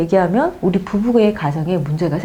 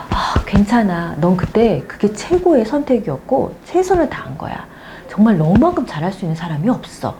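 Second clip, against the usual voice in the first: self-comfort. Shown as a demonstration. Comforting her own hurt self, gently. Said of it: "토닥토닥 해주면서 위로하는".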